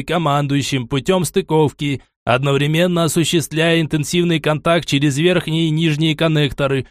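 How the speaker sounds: measured, flat android report; robot voice. Acted. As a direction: report like a cold machine.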